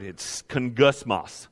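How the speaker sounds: kungusmos said slowly, each sound dragged out from the throat; guttural Greek word. Shown as a demonstration. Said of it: "It's a guttural word".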